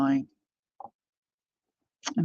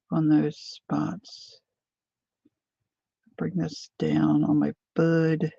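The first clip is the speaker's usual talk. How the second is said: talking around a paintbrush held in the mouth; slower than usual. Real, not acted. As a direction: mouth full, words blurred by a brush between the teeth. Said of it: "I got a paintbrush in my mouth".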